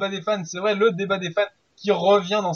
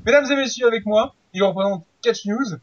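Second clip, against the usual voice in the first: grand entrance announcement; 2 semitones higher, slower than usual. Acted. Host introduces second guest.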